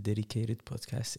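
Dedicated Podcast with an English accent; English pronunciation of the title. Real, not acted. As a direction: put on the English accent for the show's name. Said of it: "il l'a fait vraiment avec l'accent".

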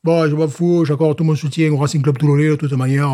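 southern French club supporter caricature; dismissive Jean-Mi character. Acted. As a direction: shrug off the tournament with mock indignation. Jean-Mi dismisses the World Cup. (supporter méridional parodique, faussement indigné)

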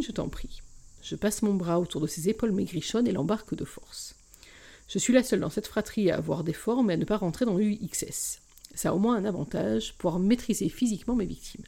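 expressive reading of a romance novel, first person; story narration. A narrator's reading. Podcast host reading a novel chapter aloud, expressive narration. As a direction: read the excerpt to podcast listeners, voicing each character.

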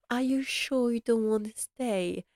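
gently imitating a sweet, persuasive mother; sweet coaxing voice. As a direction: coax softly, like a kind mother who wants him to stay. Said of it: "she talks with really sweet, nice voice".

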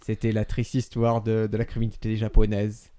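parody programme outro. Acted. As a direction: solemnly sign off a crime documentary. Mock programme sign-off. (générique parodique, voix posée et grave)

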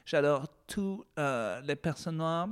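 lightly voiced patronizing liberal; condescending nice liberal. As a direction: gush with fake warmth. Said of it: "en mode on est tous cool".

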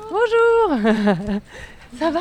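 muffled behind a face mask; through a face mask. Real, not acted. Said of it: "enregistrement avec le masque".

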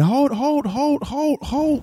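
high, loud repeated hold; stop-the-presses shout; urgent shout. Retold or imitated. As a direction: yell it to halt everyone. Retold outburst over chicken.

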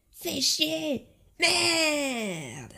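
swearing. Retold or imitated. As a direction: spit out the curses in frustration. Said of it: "il disait des gros mots aussi".

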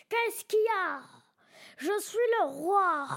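growled kingly challenge; roaring tyrant king. Pretend. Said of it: "avec un grognement comme ça".

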